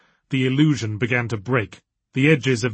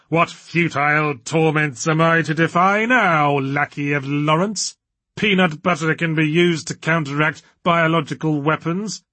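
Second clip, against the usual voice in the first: pompous villain voice; 4 semitones higher than usual. Acted. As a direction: declaim it like a woozy dark lord. Diablerie's grand character voice.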